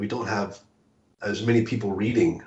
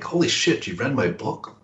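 high start dropping back, imitated disbelief; retold shock; 4 semitones higher than usual. Author retelling meeting a reader, retold shock. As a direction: replay your own stunned reaction, starting high. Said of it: "it still shocks me".

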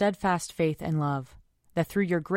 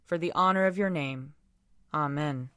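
solemn prayer. Acted. Leads prayers at a service.

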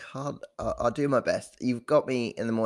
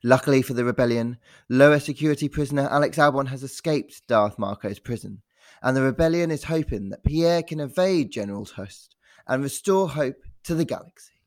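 slow, grand dramatic reading; slow movie-trailer voice, a touch of Darth Vader. Acted. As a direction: read it like an epic film trailer, drawn out. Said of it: "put on some dramatic emphasis".

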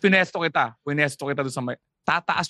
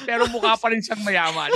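laughing; 6 semitones higher than usual. Real, not acted. Laughing tease.

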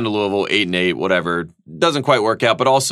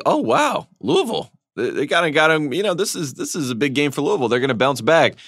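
surprised; 4 semitones higher than usual. Retold or imitated. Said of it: "I'd say".

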